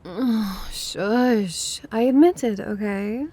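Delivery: groan, then give in with a jump on the admission; defensive, embarrassed brush-off; exasperated admission. Acted. Teased into admitting attraction.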